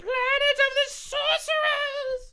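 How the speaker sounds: booming high villain cry; dark sorcerer. Acted. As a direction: bellow it like a mad sorcerer. Shouted evil sorcerer intro.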